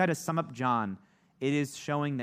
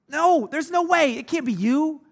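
higher, louder mock-panicked no; freaking out; 13 semitones higher, 8 dB louder than usual. Preacher voicing the Pharisees, a frantic mock protest. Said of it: "the Pharisees are freaking out".

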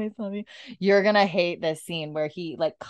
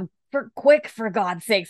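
irritated; 2 semitones higher than usual. Retold or imitated. Retelling Jamie being cut by Roger, mock irritated. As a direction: play an impatient patient being cut. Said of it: "he's so irritated".

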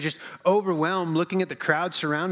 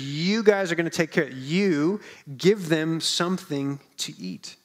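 "You give them something to eat" with give leaned on, slowing down; Jesus firmly telling disciples to feed them, give stressed; emphatic command. Retold or imitated. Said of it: "The command here is emphatic".

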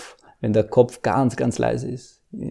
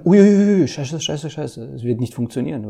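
mock panic; 3 semitones higher than usual. Panicked inner voice imagined.

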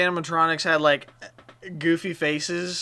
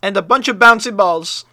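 urgent; 5 semitones higher, 7 dB louder than usual. Acted. Kid demands items as emergency.

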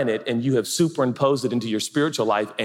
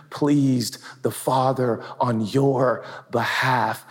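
loving voice. Acted. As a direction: speak like a proud, gentle father. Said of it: "as opposed to this voice".

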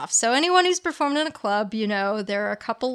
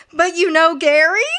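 surprised; 5 semitones higher, 6 dB louder than usual. Retold or imitated. Psychic baffled by Carrie's answer.

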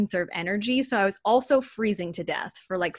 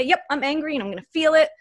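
mild declaration; 5 semitones higher than usual. Shown as a demonstration. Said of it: "you just have to say".

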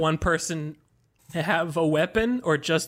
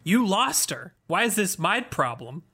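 raised, indignant complaint; indignant prince; 4 semitones higher than usual. Acted. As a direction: protest like an annoyed prince. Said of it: "said Dobrotek".

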